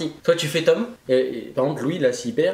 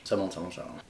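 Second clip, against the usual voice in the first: mouth burning from spicy food; 7 semitones lower, 12 dB quieter than usual. Real, not acted. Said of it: "C'est horrible".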